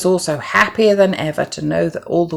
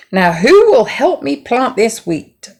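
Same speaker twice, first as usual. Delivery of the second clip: higher, slow, loud hen voice; hen asking for help; 8 semitones higher, 6 dB louder than usual. Acted. Hen asks the farm animals for help, high and slow. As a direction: ask each neighbour hopefully. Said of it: "asked the little red hen".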